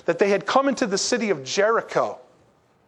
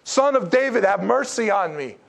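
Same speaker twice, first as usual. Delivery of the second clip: crying out. Retold or imitated. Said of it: "he cried out all the more".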